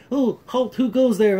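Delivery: high hammed-up guard call; mock guard. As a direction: play a silly castle guard challenging. Guard voiced in recap.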